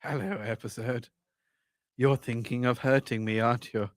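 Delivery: low, soft character voice; hushed, low mock menace; voicing the episode. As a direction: speak low and quietly as the episode personified. Plays the other's episode as character.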